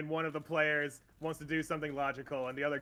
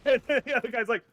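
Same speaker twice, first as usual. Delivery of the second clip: ordinary delivery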